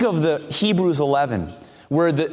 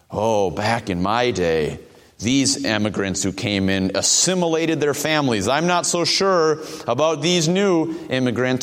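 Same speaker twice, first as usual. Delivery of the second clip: a light, lower, slowed hint of a grumbling old-timer; 5 semitones lower than usual. Pastor imitating someone who grumbles about new immigrants, mild mock old-timer grumble.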